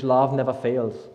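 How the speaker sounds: slow, deliberate English "Love never fails"; English quote. Shown as a demonstration. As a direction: say "Love never fails" slowly in clear English, each word weighed. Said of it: "auf Englisch".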